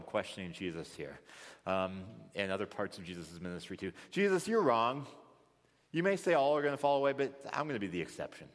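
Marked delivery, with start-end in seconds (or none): 4.1-8.5 incredible confidence. Retold or imitated. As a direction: contradict him, then race through the rest. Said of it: "He has incredible confidence in himself".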